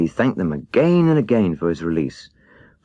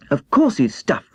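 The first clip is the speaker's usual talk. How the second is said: still angry; 6 semitones higher than usual. Acted. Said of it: "who was still angry".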